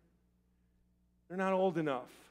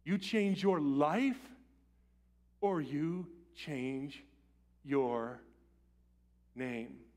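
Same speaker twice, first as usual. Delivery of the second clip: stern emperor; 2 semitones lower, much slower than usual. Acted. Alexander eye to eye with the deserter, slow grave ultimatum. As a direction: lay down an ultimatum slowly. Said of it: "And he said".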